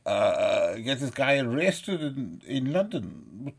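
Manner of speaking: put-on indignant complainer; mocking imitation. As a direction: imitate his appeal to the police. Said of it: "He said".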